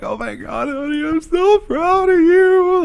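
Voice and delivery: high, drawn-out mock weeping; tearful mom. Mom gushing to son about his new car, mock tearful. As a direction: put on a mom's squeaky happy crying. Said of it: "she cries right away".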